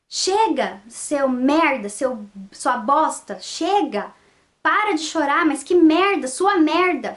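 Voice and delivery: imitando uma bronca ríspida, mais alta no final; retold angry yell at a baby, only moderately loud; grito imitado. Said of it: "ela gritou". (bronca gritada, em imitação contida)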